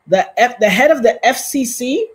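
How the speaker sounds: outraged repeat; loud disbelief. Real, not acted. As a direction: say it like you can't believe it. Shocked news reaction.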